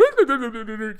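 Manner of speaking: high, loud goofy babble; goofy animated read-aloud noises; animated silly noise. Retold or imitated. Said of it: "I'm over there being animated".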